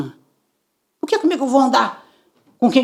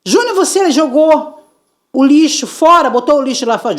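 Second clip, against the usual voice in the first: mother questioning son; 5 semitones higher, 3 dB louder than usual. Retold or imitated. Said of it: "E Júnior".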